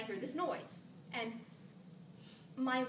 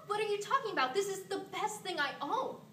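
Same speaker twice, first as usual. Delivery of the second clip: put-on high, loud protest of an offended teenager; mock teenage outrage; indignant teen; 8 semitones higher, 4 dB louder than usual. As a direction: argue back at dad, pitched way up. Acts out teen arguing with dad.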